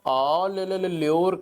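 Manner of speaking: calling a street dog to a biscuit, chirpy; sing-song ले, ले, ले to lure a dog; coaxing a dog. Retold or imitated. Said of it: "करके".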